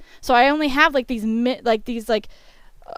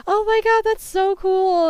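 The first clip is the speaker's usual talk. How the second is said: put-on excited girlfriend; 9 semitones higher, 3 dB louder than usual. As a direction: gush over the costume like an excited fan. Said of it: "she's just like".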